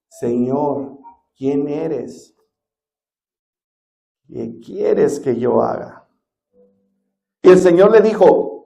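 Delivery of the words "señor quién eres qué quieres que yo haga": softer, lower, hushed and fearful; a hint of Saul trembling before the Lord. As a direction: ask it slowly, shaken and afraid. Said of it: "temblando y temeroso".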